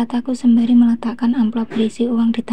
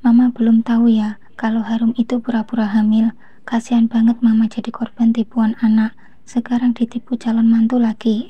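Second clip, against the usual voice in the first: annoyed mocking. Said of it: "ejekku kesal".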